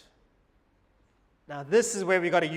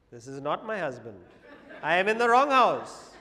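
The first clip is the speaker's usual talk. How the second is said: laughing; 2 semitones lower than usual. Real, not acted. Punchline, laughing.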